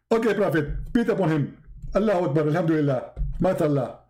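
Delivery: lightly mimicked preacher, short falling honorifics; Zakir Naik as Jibreel. Angel soothes upset prophet, mock-pious preacher patter. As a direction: reel off mock-pious bursts. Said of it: "You look like Zakir Naik".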